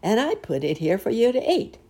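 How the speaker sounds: high, loud mosquito villain; bad biting bug. A narrator's reading. Mosquito revealing the trap cake, high loud bug voice. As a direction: boast as the pesky bug. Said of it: "went on the bad biting bug".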